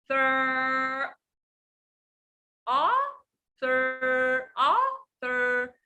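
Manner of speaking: ah and thir split apart slowly, teacher showing the sounds; teacher drilling ah and thir slowly; slow pronunciation demo. Shown as a demonstration. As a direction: model ah, then thir, one sound at a time. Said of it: "You see my tongue?".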